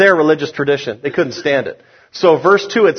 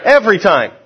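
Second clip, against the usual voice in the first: firm, higher-pitched EVERY TIME; with conviction; 3 semitones higher than usual. Shown as a demonstration. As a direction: say it like you truly mean it. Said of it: "Say it with conviction".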